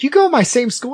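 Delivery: high, incredulous question; retold disbelief. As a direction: replay your amazement at the coincidence.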